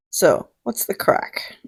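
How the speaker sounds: a breathy, slow "what's the crack"; whispered. Shown as a demonstration. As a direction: whisper it like a secret.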